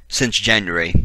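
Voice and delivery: clipped British "January" in two or three syllables; fake British accent. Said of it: "Had to do my fake British accent".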